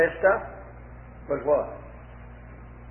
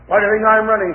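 snarled; 3 semitones higher, 5 dB louder, faster than usual. Acted. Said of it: "she snarled".

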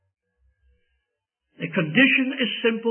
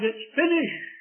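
Saviour's cry; 6 semitones higher than usual. Retold or imitated. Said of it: "On Calvary's cross he cried".

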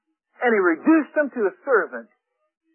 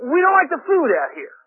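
lightly acted grumbling crowd; griping. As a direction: complain like a fed-up follower. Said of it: "the people are griping and griping".

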